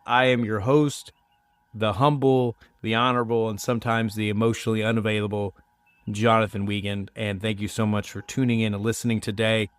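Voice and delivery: congested from a sinus cold; stuffy cold voice. Real, not acted. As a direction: talk through a stuffed-up nose. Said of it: "If my voice sounds a little bit different".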